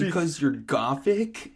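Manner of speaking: slow, tentative question; little afraid voice. Acted. Snap asks, afraid of Satan, little afraid voice. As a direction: ask it slowly, slightly timid. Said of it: "in a little afraid voice".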